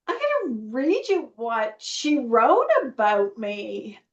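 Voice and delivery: swooping, emphatic eagerness to share; gushing, with big pitch swoops on key words; excited retelling. Retold or imitated. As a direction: re-enact being thrilled by a letter. Resumes her excited reply to husband.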